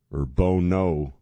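slow drawing out of a singer's name with a long oh; long-oh pronunciation. Shown as a demonstration. Host echoing the sidekick's joke, the name drawn out with a long oh. Echoes the mispronounced name.

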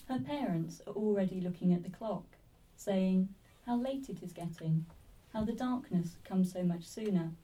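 measured poem recital with pauses between lines; poetry reading. Acted. Poet reading to a live audience, poetry reading. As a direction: read it line by line, letting each phrase settle. Reads own poem aloud.

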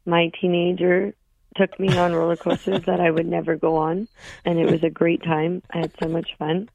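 hoarse, lost voice after screaming; raspy whisper of a lost voice. Real, not acted. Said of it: "I have no voice 'cause I was at Canada's Wonderland".

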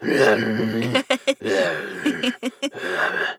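imitated Wookiee growling under laughter; mock Wookiee growl. Showing how Charlie Vane sounds, mock Wookiee growls. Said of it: "Everything he says sounds like this".

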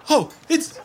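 high, loud, breaking cries; distraught mother crying out; sobbing panic. Acted. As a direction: wail it out in panic. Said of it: "Amelie is just crying".

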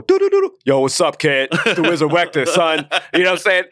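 lightly voiced rapper, high start then near own voice; a loose playful take on a rapper's greeting; rapper impression. Rapper friend backstage imitating another rapper, mildly put-on voice. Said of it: "No, he's doing a rapper".

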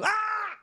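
sudden high cry of back pain; pained yelp. Retold or imitated. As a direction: yelp like his back just went out. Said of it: "that he doesn't do".

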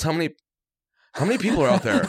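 high, strained disbelief; panicked friend. Retold or imitated. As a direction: ask it like you just saw the crowd. Friend panicking at crowd size.

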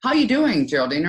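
bright, engaged hello, rising high on you; friendly greeting. Shown as a demonstration. Coach shows a warm, interested greeting. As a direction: greet her like you really want to know. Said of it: "Give people something to talk about with you".

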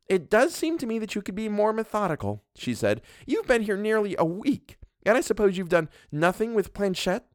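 a domineering wife scolding her husband; Mrs Montague. Acted. Mrs Montague lectures the doctor, haughty and bossy.

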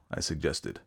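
ordinary delivery

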